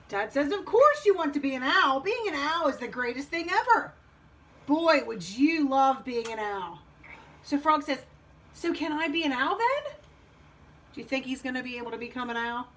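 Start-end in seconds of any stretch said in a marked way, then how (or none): 0.5-6.8 frog's dad. Acted. Dad agrees owls are great, gushing. 8.5-9.9 lightly voiced frog, higher pitch; hopeful frog. Frog asks Dad to be an owl, hopeful.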